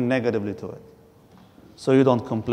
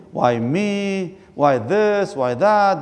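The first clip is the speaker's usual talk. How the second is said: mock complaining; 5 semitones higher, much slower than usual. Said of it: "They complain".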